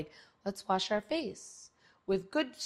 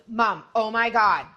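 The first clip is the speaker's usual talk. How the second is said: put-on excited teen daughter; 4 semitones higher, 6 dB louder than usual. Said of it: "she goes".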